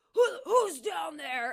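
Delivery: trying-to-be-tough, aggro, challenging tone. Retelling a guy on a hillside trying to be tough: imitating an aggressive guy. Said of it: "tries to be, like, all aggro".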